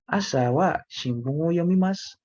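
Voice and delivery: a hint of a young woman answering; voicing the girl. Answer voiced as Eugenia.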